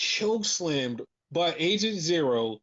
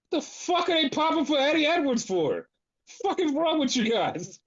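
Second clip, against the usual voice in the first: upset; 7 semitones higher than usual. Retold or imitated. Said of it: "I was so upset".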